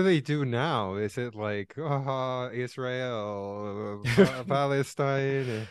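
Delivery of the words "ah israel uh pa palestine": slow, drawn-out Arab accent impression. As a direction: stretch the words in a put-on Arab accent. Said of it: "you did that in a very good jihad Arab voice".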